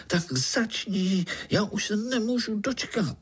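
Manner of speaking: high, impatient little voice; can't wait any longer; bouncing with excitement; eager child. Acted. Pája impatient, jumped up.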